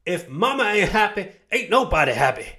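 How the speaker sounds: high, loud Southern twang on mama; Southern American accent. Shown as a demonstration. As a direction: belt it out like a sassy Southern mama. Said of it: "I need to get that in a different accent".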